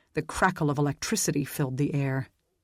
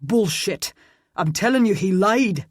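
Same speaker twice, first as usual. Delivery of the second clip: angry shout, higher and louder; furious shout; 4 semitones higher, 5 dB louder than usual. A narrator's reading. Roland insisting Chris lied, furious shout. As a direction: yell it in his face.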